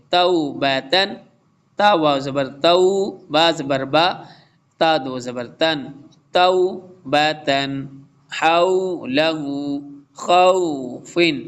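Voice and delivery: slow careful recitation, तऊ said short, not stretched; short vowel recitation. Shown as a demonstration. Teacher reciting slowly for the students, keeping the vowel short. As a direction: chant each letter combination slowly with a short ending. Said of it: "short ही खौफिन".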